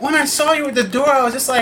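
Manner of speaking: high, overwhelmed exclamation. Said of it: "She was like".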